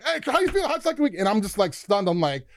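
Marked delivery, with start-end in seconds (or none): 0.0-1.2 much higher, changed voice for the legend on the phone; Dick Butkus impression. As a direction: play the famous linebacker calling a recruit. Butkus voice continues.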